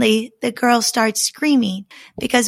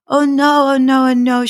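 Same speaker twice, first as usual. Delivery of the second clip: panicked oh no; 3 semitones higher, 5 dB louder, much faster than usual. A narrator's reading. Bride panicking at the bloodstained key, frantic. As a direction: cry out in alarm. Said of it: "she thinks".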